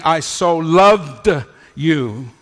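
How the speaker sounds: loved drawn out slowly and stressed. Shown as a demonstration. Preacher stressing "loved" to the congregation, slow and weighty. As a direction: lean on "loved", stretch it slow. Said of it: "He's saying".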